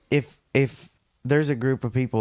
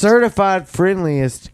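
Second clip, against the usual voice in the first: pitched up and louder, proudly; proud loud echo; 9 semitones higher, 5 dB louder than usual. Real, not acted. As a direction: boast it back loudly.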